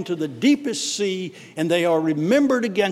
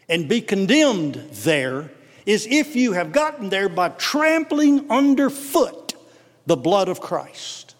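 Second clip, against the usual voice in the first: preaching; 3 semitones higher than usual. Acted. Pastor warning the congregation, fiery preaching. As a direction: thunder the warning at the flock.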